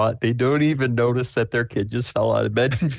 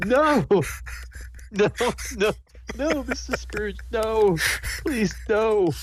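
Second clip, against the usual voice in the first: very high, tearful, crying, pleading voice; 10 semitones higher than usual. Voicing a character begging in a tense scene: crying while pleading. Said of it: "he's just crying".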